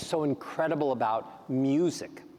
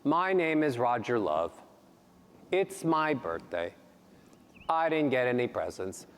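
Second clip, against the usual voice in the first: falling sad tune, a touch lower; lightly done sad falling delivery; descending melody; 4 semitones lower than usual. Shown as a demonstration. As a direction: let each phrase sink down. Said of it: "we all use descending melodies".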